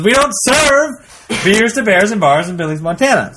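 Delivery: mock-stern bartender getting insistent; emphatic refusal. Bartender refuses again, more forcefully.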